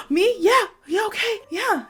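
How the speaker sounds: high-pitched, tripping-over-itself yes; acted over-eager string of agreement; eager acceptance. Woman saying yes to her crush, breathlessly eager. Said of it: "couldn't even say it fast enough".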